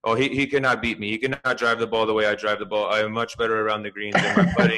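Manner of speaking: mild imitation Spanish accent; straight-faced boast in a light Spanish accent. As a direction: play the sure-of-himself golfer, lightly Spanish-accented. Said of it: "this is my Spanish accent".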